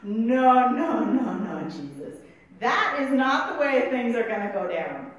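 firm mock objection, loud at the start; acted protest. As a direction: refuse it outright, playing the disciple. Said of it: "how does the mouthpiece of the newfound church respond".

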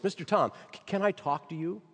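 lightly trembling, hesitant plea; quivering voice. Retold or imitated. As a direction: let the voice quiver a little. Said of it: "said in a quivering voice".

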